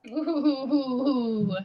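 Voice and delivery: laughing "ooh"; drawn-out, tickled ooh; amused hooting. Real, not acted. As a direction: hoot with amusement at a bold jab. Amused reaction to the loud jab.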